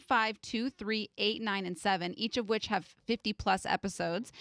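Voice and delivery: flat monotone robot reciting numbers. Real, not acted. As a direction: list it like a machine. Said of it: "Why do you sound like a robot?".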